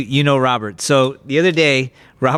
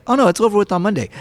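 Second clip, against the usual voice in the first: quick, offhand and higher; matter-of-fact; 5 semitones higher, much faster than usual. Retold or imitated. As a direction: brush it off lightly. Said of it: "like, matter of fact".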